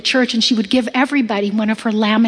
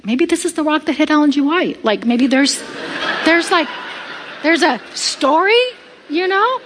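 amused musing; 3 semitones higher than usual. Retold or imitated. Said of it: "And I'm thinking".

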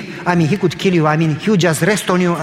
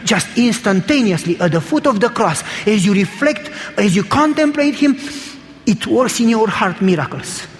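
urgent preaching that climbs steadily higher; fervent preaching; 3 semitones higher than usual. Real, not acted. Preacher urging the congregation to see God, fervent and building. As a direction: build phrase on phrase toward a sermon climax.

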